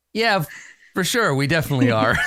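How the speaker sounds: hasty, stumbling agreement to cover ignorance; bluffed agreement. Acted. Stranger pretends he knows the Rakdos, hasty bluffed agreement. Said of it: "he does that, like".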